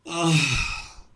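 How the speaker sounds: high, weak despairing ah; despondent sigh. A narrator's reading. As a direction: let out a hopeless little ah. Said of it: "murmuró Vasia".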